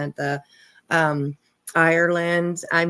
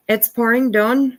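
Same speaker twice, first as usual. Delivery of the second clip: put-on higher, louder playful Scottish accent; 4 semitones higher, 5 dB louder than usual. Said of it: "I said it perfectly".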